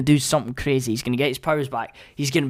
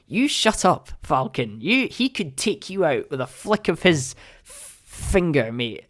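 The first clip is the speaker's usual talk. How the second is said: indignant telling-off; 4 dB quieter than usual. Retold or imitated. Acting out telling Falcon off.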